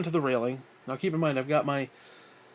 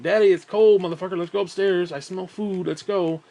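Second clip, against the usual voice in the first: dog voice; 3 semitones higher, 5 dB louder than usual. Retold or imitated. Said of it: "He's like".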